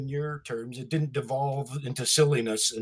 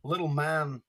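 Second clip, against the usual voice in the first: Walken bit; 4 dB quieter than usual. Retold or imitated. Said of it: "Do your Christopher Walken".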